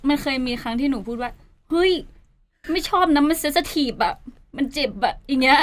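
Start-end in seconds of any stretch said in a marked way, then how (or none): 1.5-5.1 retold protest, slow and higher; mild complaint that sounds like kidding; half-joking complaint. Telling a friend it hurts, half-joking. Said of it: "แต่พูดด้วยน้ำเสียงแบบนี้ใช่ไหมคะ? มันก็ดูเหมือนติดตลก".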